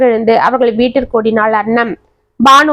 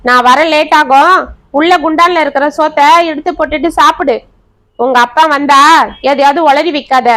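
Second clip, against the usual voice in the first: sharp, raised scolding mother voice; a harsh mother barking threats, a little higher; 3 semitones higher than usual. Acted. Mother scolding her crying daughter, harsh and raised.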